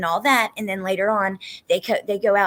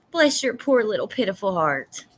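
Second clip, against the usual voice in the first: mock-pitying Southern accent; Southern sass. Shown as a demonstration. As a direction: lay on the Southern sympathy. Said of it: "Nice Southern accent is the best for cursing".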